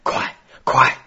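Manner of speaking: loud, urgent hurry-up cry; shouting. A narrator's reading. Thalcave urging haste as the wolves attack, shouting. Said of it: "塔卡夫也叫了起来".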